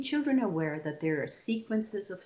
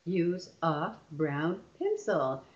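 slow counted words; slower than usual. Shown as a demonstration. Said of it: "using my hand to count the words".

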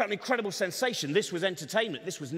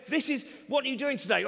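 whiny mock shout; 5 semitones higher than usual. Modern whiner, same question.

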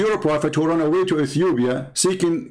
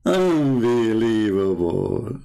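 mock disbelief; 5 semitones lower, much slower than usual. Real, not acted. Mocking disbelief, drawn out.

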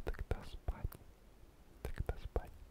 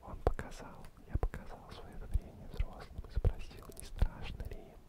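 calm whisper. Acted. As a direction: whisper the story to lull them asleep. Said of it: "таким тихим, тихим, спокойным шепотом".

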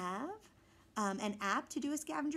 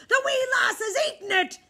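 much higher, loud anguished cry; despairing pirate; 10 semitones higher, 11 dB louder than usual. A narrator's reading. Pirate captain despairing over the eaten map. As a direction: wail at the lost map.

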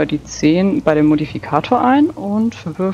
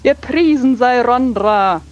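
hammy stage actor; 2 semitones higher than usual. Acted. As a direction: proclaim it with big theatrical sweep. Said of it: "sehr tulamidisch, theatralisch".

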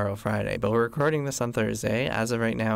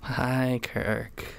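understated, unexcited hello; unenthusiastic. Real, not acted. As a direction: greet with little enthusiasm. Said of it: "You sound so excited".

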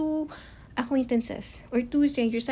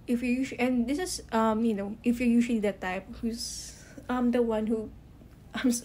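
tripping over words, restarting; stuttering. Real, not acted. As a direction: stumble and restart the sentence. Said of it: "Sorry, I'm stuttering".

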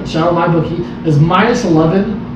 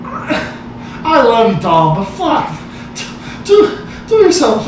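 laughing disbelief; 5 semitones higher than usual. Real, not acted. Laughing at friend's preseason bet.

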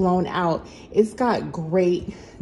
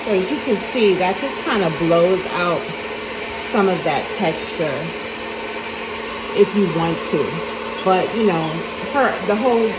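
raised voice over a blow dryer; over hair dryer. Real, not acted. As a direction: talk up over the dryer noise. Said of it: "Sorry for talking over the blow dryer".

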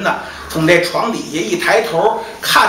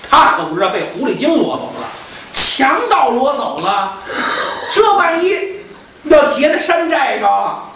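higher, stammering distressed voice; distressed servant; 6 semitones higher than usual. Acted. Servants ask the master where the lady went, distressed. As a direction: stammer out the bad news in dismay.

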